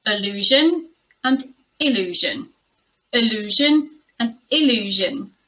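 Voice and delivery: allusion with uh, then illusion with ih; first-sound contrast. Shown as a demonstration. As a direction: alternate uh-LOO-zhun and ih-LOO-zhun. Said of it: "there's a difference just in that first sound".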